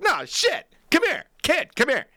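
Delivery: put-on high, loud calling the kid over; hammed-up gawking shout; mock astonished buddy. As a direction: call the kid in disbelief. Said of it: "he'd stop and be like".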